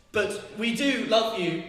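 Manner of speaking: slow, leaning hard on "do"; stress on do. Shown as a demonstration. Poet stressing "do" in the parents' line, slow. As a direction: drag out "do" to make it mean something. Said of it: "The do in We Do Love You does so much work".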